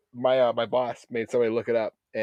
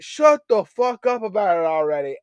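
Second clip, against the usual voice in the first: higher mock Southern grumble; southern accent; 9 semitones higher than usual. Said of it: "this southern accent".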